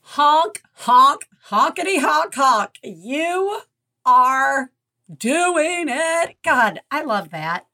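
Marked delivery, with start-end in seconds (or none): 0.0-6.4 silly clown. Acted. Honking cheer at caller.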